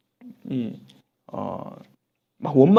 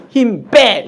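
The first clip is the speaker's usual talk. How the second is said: loud, higher sudden order; firm command; 6 semitones higher, 9 dB louder, much slower than usual. Acted. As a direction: order them to let go. God tapping shoulder, giving order. (크게 외치는 명령)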